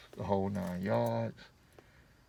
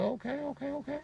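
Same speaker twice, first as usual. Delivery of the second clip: smooth high okay; 5 dB quieter than usual. Retold or imitated. Flirty greeting to a woman.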